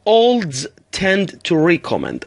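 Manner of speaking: very slow, word by word; slow model reading. Shown as a demonstration. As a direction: read it out slowly for the class. (خواندن آهسته و شمرده)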